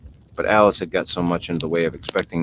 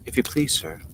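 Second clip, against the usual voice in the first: small, soft and raised; low timid plea; 7 semitones higher, 5 dB quieter than usual. A narrator's reading. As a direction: ask shyly, afraid to disturb. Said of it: "in a low, timid voice".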